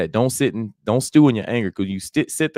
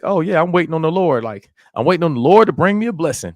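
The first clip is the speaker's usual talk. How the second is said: higher-pitched mock complacent voice; imitating naive believers; 6 semitones higher, 4 dB louder than usual. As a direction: lightly act out someone confidently missing the point. Voices people who misunderstand waiting.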